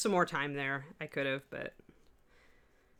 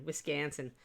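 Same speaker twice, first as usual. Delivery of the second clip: Wisconsin accent; 2 semitones lower, 6 dB quieter than usual. Shown as a demonstration. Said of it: "I go into my Wisconsin accent".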